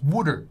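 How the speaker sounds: "water" as "wooder"; Philly water. Shown as a demonstration. Host showing the Philly way to say water, "wooder". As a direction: flap it: "wooder". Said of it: "They say water in Philadelphia".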